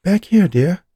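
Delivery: high, loud call to the back room. Acted. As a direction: call out to him across the shop. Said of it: "Eleanor called back".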